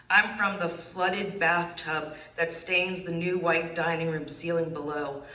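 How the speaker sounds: measured, deliberate poetry recital; poem reading. Acted. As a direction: read each "I'm from" line like an open-mic poem. Reads her poem aloud.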